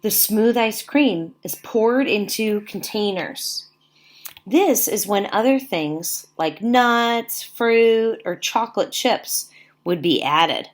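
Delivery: put-on slow, even read-aloud for young listeners; reading to children. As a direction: read each sentence to the class with care. Teacher reads book to class.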